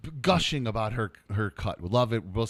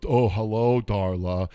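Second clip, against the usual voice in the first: mock polite greeting; 6 semitones lower, 4 dB louder, slower than usual. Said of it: "he goes".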